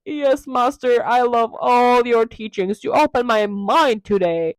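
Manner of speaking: lightly hammed-up adoring disciple; mock devotion, drawn out; devoted pupil. Dorian to his master, mock adoration.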